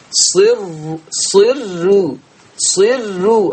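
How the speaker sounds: صر repeated with a light, thin r; ترقيق الراء. Shown as a demonstration. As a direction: keep each r in صر thin and light. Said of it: "هرقق". (صر براء مرققة)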